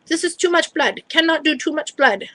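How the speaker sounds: imitated lab technician. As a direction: imitate her balking at the job. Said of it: "and she's like".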